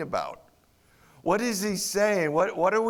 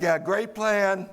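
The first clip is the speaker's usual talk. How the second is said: certain tone. Retold or imitated. Disciples report five loaves to Jesus, mild sarcasm. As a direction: drag it out with light disdain. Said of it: "they said that with a certain tone".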